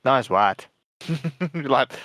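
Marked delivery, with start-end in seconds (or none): 0.0-0.7 "white" said as "wæt"; dropping into a South African vowel; South African accent. Retold or imitated. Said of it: "It's like".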